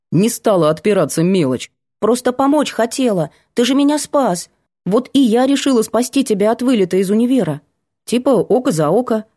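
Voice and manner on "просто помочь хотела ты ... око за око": put-on higher, eager girl's voice. Girl explaining to Vanya why she helped, eager. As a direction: rush to justify her good intentions.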